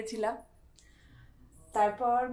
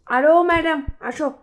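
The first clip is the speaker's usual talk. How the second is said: loud, raised playful summons; 4 semitones higher, 10 dB louder than usual. Real, not acted. Mum calls toddler to milk, loud and coaxing. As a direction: call the little one over, loud and high. Calling child to drink milk.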